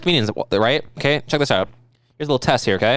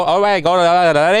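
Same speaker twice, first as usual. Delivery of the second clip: mock babbling German noises; obnoxious high-pitched voice; 2 semitones higher, 5 dB louder than usual. Host mocks people trying the higher German voice, obnoxious babble. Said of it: "most obnoxious possible version of that high pitched voice".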